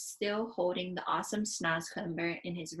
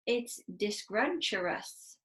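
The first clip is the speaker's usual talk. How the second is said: gurgling; slower than usual. Acted. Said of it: "the B F G gurgled".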